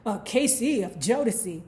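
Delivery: badly faked British talk show host; half-hearted British accent with a mock chuckle; pretend British accent. Host asking Mary about her engagement, pretend British accent. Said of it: "Just pretend I'm doing a British accent".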